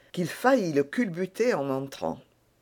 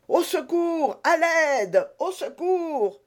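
high, panicked calls for help; crying for help; 12 semitones higher, slower than usual. A narrator's reading. Grimaud thinks an assassin broke in, panicked high cries. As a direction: scream for help as if facing a killer. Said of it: "s'écria-t-il".

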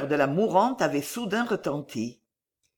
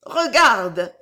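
loud, higher-pitched command; dying woman's cry; 4 semitones higher, 7 dB louder than usual. A narrator's reading. Dying woman urging the girl to look, crying out. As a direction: cry out with desperate urgency. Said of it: "cria l'agonisante".

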